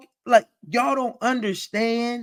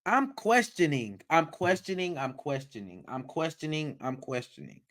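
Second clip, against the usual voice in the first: softer and softer, trailing off; fading repetition; 4 semitones lower, 9 dB quieter than usual. Real, not acted. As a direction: let each repeat fade lower. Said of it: "repeating, fading away".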